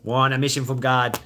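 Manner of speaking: put-on mission-from-God line, Boston accent. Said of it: "that Boston accent".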